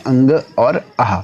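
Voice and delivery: अंग और आह said slowly, each sound stretched; धीमे खिंचे स्वर; drawn-out vowel sounds. Shown as a demonstration. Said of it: "अयोग वाह यहाँ पे बोलते हैं".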